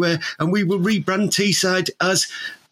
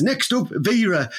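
announcer voice; 2 semitones higher, slower than usual. Retold or imitated. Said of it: "someone says".

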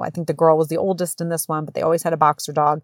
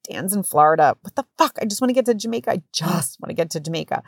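exasperated cursing. Retold or imitated. Mom cursing in her head at the hospital, exasperated. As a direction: groan and curse to yourself. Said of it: "like, cursing".

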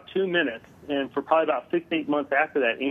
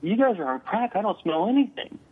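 scoffing; 6 semitones higher than usual. Retold or imitated. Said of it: "And I'm like".

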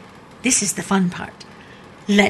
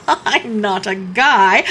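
tag; 3 dB louder, slower than usual. Acted. Laughs at being called guy.

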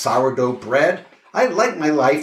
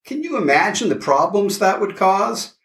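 high incredulous scoff; 7 semitones higher than usual. Acted. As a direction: scoff at the absurd idea. Scoffing at going naked.

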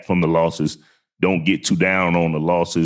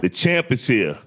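booming ring announcer, long drawn-out name; fighting game announcer; 9 semitones higher, slower than usual. Acted. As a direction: stretch the name like a boxing announcer. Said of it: "You like my announcer voice?".

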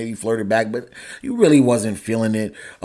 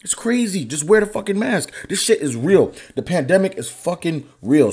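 raised heated voice; 7 semitones higher than usual. Real, not acted. Host ranting about the pandemic, voice raised and heated. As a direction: pitch shooting up in frustration. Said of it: "My voice is raising and shit".

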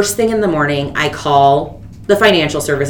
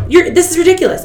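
mock exasperated dealer; 12 semitones higher, 4 dB louder, faster than usual. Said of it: "he's like".

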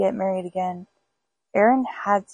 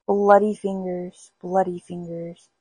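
ghostly moan. Acted. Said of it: "it was moaning".

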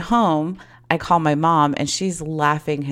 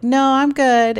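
firm refusal; 9 semitones higher, 6 dB louder, slower than usual. Retold or imitated. Declining his kiss.

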